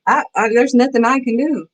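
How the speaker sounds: retold helpless fretting; freaking out. Speaker re-enacting feeling powerless, mildly freaking out. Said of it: "I started freaking out".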